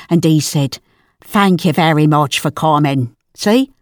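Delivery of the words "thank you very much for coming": put-on lower-pitched quote in an Irish accent. Mum quoting the actor she met, Irish accent. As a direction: give the actor's polite thanks an Irish lilt. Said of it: "He was Irish then".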